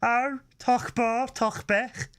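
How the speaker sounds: put-on high, slow Brummie-accented Klingon; Birmingham Klingon. Co-host showing off a Birmingham Klingon, mock Brummie accent. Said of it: "I wanna do a Birmingham Klingon".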